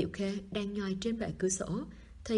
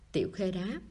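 usual speaking voice

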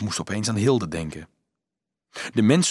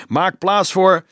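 loud, raised commanding call; shouted order; 7 semitones higher, 6 dB louder, slower than usual. A narrator's reading. Halberdier clearing the way for procession, shouting an order. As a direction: clear the crowd with your voice.

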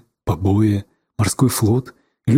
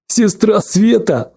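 evil chuckle; 7 semitones higher, slower than usual. A narrator's reading. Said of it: "зловеще усмехнулся Федотов".

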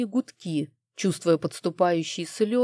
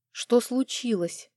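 slow, dazed and a little higher; confused; 5 semitones higher, slower than usual. Acted. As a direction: ask as if just waking, lost. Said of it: "растерянно спросила я". (растерянно, медленно, чуть выше)

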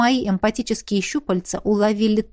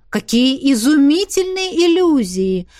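exclaiming. Acted. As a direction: gush over it in wonder. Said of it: "воскликнул Хуан".

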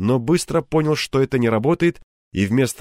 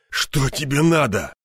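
hoarse wheeze; 2 semitones higher than usual. Acted. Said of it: "прохрипел полковник".

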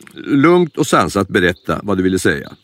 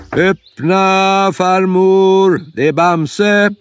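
Bamse calls out through the door, higher and louder; calling out loud; 9 semitones higher, much slower than usual. Acted. Bamse calling through the locked door, raised high. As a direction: shout to grandma to open up. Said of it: "och ropade".

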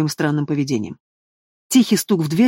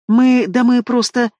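frightened babble; 6 semitones higher, 4 dB louder, slower than usual. Acted. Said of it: "испуганно лепетала мачеха".

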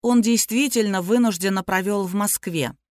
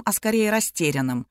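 ordinary talk

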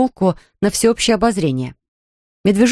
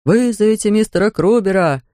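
a distant echo down the corridor; echoing call; 3 semitones higher than usual. Acted. Summons echoes through the corridor, distant. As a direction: let it ring back like an echo. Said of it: "эхом разнеслось по коридору".

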